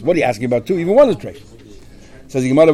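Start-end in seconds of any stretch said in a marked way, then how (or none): 0.0-1.4 understated irritated retort, rising at the end; mild mock anger. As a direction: imitate someone getting a bit angry. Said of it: "he'll get angry at us".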